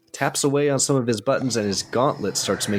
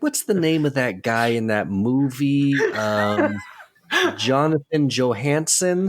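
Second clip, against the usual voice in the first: lightly voiced confused mom; imitating a mom; 3 semitones higher than usual. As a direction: play a mom groping for a name. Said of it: "your mom's like".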